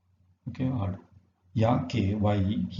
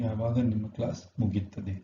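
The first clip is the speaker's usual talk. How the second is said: fast; much faster than usual. Shown as a demonstration. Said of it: "ಯಾವಾಗ means when".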